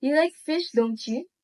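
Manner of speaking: real question, "don't you" going up at the end; rising tune on "don't you"; rising question tag. Shown as a demonstration. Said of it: "And for real question tags".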